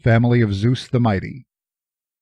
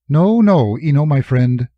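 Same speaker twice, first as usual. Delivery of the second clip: Jory's voice; 3 semitones higher than usual. Acted. Jory protests to Eno.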